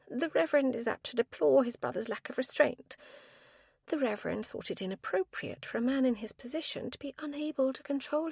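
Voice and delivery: a high, earnest spinster pleading her case; spinster's voice. A narrator's reading. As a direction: speak up for the Reverend, primly. Spinster continues defending Reverend.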